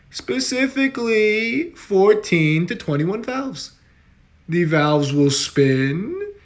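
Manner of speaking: measured governor's briefing voice; a politician explaining things far too simply; Cuomo impression. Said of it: "Governor Cuomo will dig himself".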